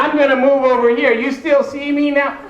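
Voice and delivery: high, exaggerated cheerful voice to a stranger; talking down like to a child. Mocking someone with glasses.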